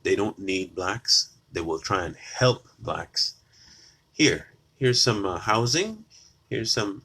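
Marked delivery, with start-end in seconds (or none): 4.1-7.0 mock condescending helper. Mocking liberal handouts.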